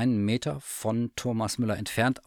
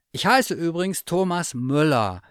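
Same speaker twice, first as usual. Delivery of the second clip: higher curious bear voice; eager teddy bear; 8 semitones higher, 6 dB louder than usual. Acted. Bear asks the cat about her wish, high and eager. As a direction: ask like a hopeful little bear. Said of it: "fuhr er fort, bemüht".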